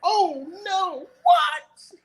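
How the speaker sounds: very high, mock-astonished crowd outcry; gasping crowd. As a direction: squeal it like a shocked onlooker. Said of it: "Crowd goes".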